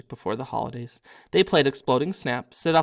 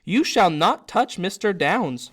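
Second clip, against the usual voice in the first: loud, slow high elf warning; guard your master fiercely; 5 semitones higher, 6 dB louder, slower than usual. Acted. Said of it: "he said fiercely".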